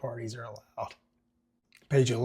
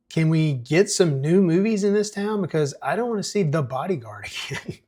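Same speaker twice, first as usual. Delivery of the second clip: put-on whiny teen; 5 semitones higher, 6 dB louder than usual. Teen son complains.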